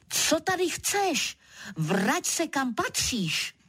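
vysoký, napodobený křik; zakřič výš, aby zněl výhružně. Acted. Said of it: "zašklebit ještě hůř než on a křičím". (vyhrožující křik na levharta)

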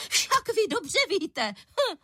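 indignant mother in a high voice; accusing high voice. A narrator's reading. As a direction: drag it out knowingly. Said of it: "nepřirozeně vysokým hlasem".

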